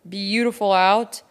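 slow, weary, short of breath; talking through altitude sickness; altitude sick. Real, not acted. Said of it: "struggling from extreme altitude sickness".

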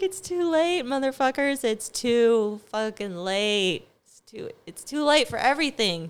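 gleeful taunt. Retold or imitated. Gleeful taunt at angry people.

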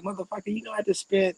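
screaming inside but keeping it in; high strained inner rant; exasperated inner voice. Retold or imitated. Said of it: "thinking to myself".

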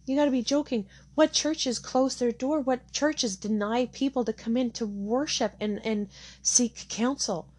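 rising indignation, slowing on the questions; outraged disbelief. Retold or imitated. Outraged disbelief, churches closed.

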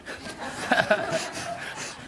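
breathy burst of laughter. Real, not acted. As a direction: laugh softly at the punchline. Laughing at the taxi driver story.

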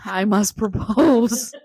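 slow, laughing mock solemnity; mock suitor proclamation. Friend joking about eager college suitors, mock-solemn proclamation. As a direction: draw it out like a pompous suitor.

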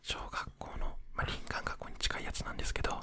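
ひそひそ声. Real, not acted. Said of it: "ひそひそ声で話をしていこう". (寝室でこっそり話すささやき声)

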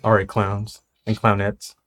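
announcer voice. Acted. Announcer greeting.

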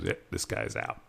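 lightly voiced waitress cutting him off; a hint of a strict server; imitating the server. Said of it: "She goes".

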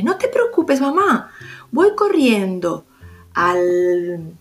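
lightly voiced small boy, eager to help; little boy voice. Garbancito reassures his mother.

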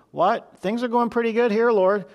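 a taken-aback disciple pushing back; surprised protest. Acted.

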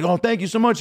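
high, starstruck mock gush; gushing thanks. Comic thanks Paul for the compliment, high gushing voice. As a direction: thank your idol in a high voice. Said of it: "I was like".

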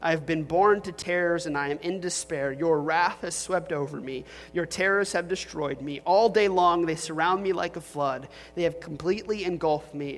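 earnest, lightly heightened Bible reading; scripture reading. Acted. Pastor reading Psalm 88 to the congregation, earnest and grave.

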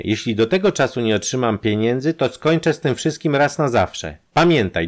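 menacing, hateful warning; threatening. Acted. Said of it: "lekceważenie i groźba".

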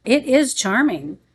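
measured audiobook-style reading; story narration. A narrator's reading. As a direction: read it aloud with careful, expressive phrasing. Reads the book aloud.

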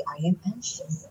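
slow, soft example sentence; slow teaching demo. Shown as a demonstration. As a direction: say it slowly like a teacher.

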